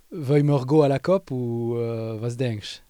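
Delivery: slow, easy mix of Swiss German and French; casual Swiss German–French mix to her son; mixing languages with her son. Shown as a demonstration. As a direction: drop into the family language mix, talking to your boy. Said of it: "je dirais ça comme ça à mon fils".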